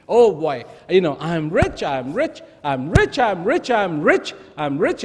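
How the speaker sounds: lightly voiced joyful chant; happy. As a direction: repeat it with a touch of glee. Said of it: "He got very happy".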